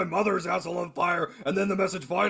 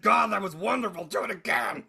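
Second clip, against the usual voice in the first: mock hag impression. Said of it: "make me sound like such a hag".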